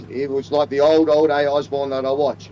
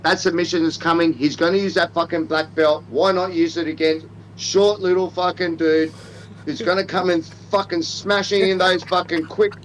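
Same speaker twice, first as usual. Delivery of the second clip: hammed-up Australian; 3 semitones higher than usual.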